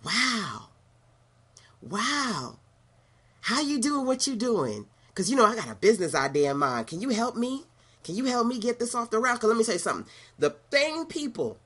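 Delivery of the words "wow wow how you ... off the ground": higher, gushing ask for help; fawning old critic. Retold or imitated. Former critic now asking the speaker for business help. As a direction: flatter and beg sweetly. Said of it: "that person".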